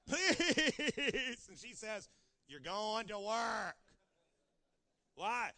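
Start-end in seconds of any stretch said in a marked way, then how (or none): 0.1-1.5 put-on high, loud pleading child; child begging his daddy, loud and high. Husband begging wife. 2.5-3.8 loud, slow, firm command; wife ordering her husband off to work, loud and slow; wife's loud order. Acted.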